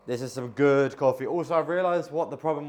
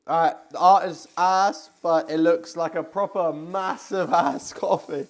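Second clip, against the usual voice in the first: amused; 5 semitones higher, 7 dB louder, slower than usual. Real, not acted. Laughing at latte art.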